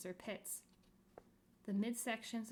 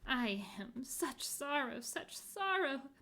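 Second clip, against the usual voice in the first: slow, rising sorrowful wail; wretched wailing; 5 semitones higher, 4 dB louder, slower than usual. Acted. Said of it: "wailing wretchedly".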